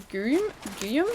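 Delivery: sounding out Guyum with a questioning rise; tentative pronunciation. Shown as a demonstration. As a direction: Guyum in two syllables, guy-yum, unsure. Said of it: "I, I'd pronounce that".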